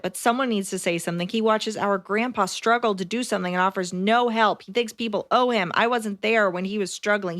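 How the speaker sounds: even, run-on read with barely a break between sentences. Real, not acted. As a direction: read straight through without punctuation. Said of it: "There was no punctuation, so I just read it".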